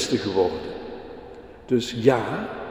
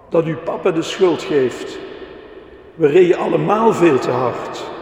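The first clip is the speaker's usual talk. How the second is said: indignant explaining; 4 semitones higher, 6 dB louder than usual. A narrator's reading. Jelle keeps protesting loudly.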